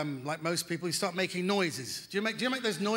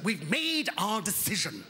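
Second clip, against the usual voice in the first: slow stubborn insistence; stubborn Brit repeating the verdict; slower than usual. Retold or imitated. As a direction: dig in and refuse to budge, slowly. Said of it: "the stubborn Britishness of that".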